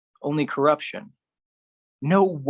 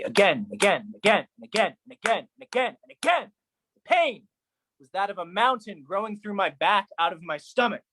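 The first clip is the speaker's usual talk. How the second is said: rising panic; 6 semitones higher than usual. A narrator's reading. Narrator falling endlessly, voice rising in panic. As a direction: voice climbing higher and higher.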